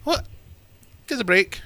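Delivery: high, outraged disbelief; mock a high, squeaky indignant protest; incredulous outrage. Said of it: "I was like".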